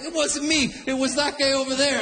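protesting duck. Retold or imitated. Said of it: "a little bit tired".

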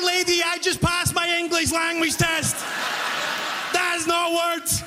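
high, strained mock yell; exasperated outburst. New cashier protesting to customer about English, high and exasperated. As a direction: throw up your hands in protest.

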